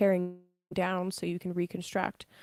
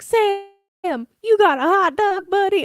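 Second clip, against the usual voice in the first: much higher and louder, gushing at the dog; loud high-pitched baby talk to a wiener dog; excited dog owner; 13 semitones higher, 9 dB louder, slower than usual. Retold or imitated. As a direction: squeal it like greeting a happy puppy. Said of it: "and he's like".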